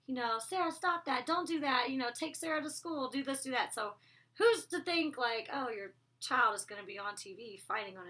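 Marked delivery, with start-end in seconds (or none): 0.4-3.7 nagging parent. Retold or imitated. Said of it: "you're a little kid, your parents".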